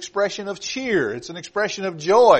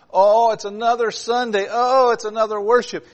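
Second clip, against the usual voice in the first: higher-pitched mock complaint; mock reluctance; 5 semitones higher than usual. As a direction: imitate a weary churchgoer groaning about worship. Mimics a reluctant churchgoer.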